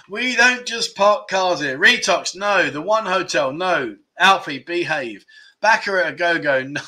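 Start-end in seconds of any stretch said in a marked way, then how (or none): 0.1-1.8 slow, slightly raised clue reading; quiz clue repeat. Pretend. Host repeating clue number two, slow quizmaster delivery. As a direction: repeat it drawn-out for the players.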